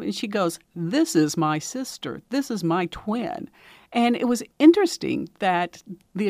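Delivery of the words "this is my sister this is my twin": slow, emphatic retold indignation; mock indignant. Little girl insisting to news person about her twin, mildly indignant. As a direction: stretch each word like an offended little girl. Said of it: "gets all indignant".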